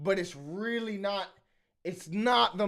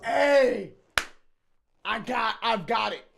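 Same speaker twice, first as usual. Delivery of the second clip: excited laughing shout; 3 semitones higher, 5 dB louder, slower than usual. Real, not acted. Streamer realises something, laughing.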